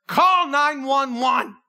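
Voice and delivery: pressing someone to phone for help; urgent call. Pretend. Bystanders urging at seizure.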